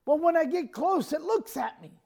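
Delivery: high, helpless justification; imitated fearful excuse. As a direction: mimic a frightened relative explaining herself. Frightened sister-in-law explains to mom.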